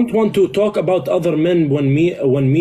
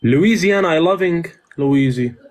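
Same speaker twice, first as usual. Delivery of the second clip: a put-on heavy foreign accent, broken English; fake foreign accent. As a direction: lay on a thick foreign accent. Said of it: "why are you have a fake accent right now".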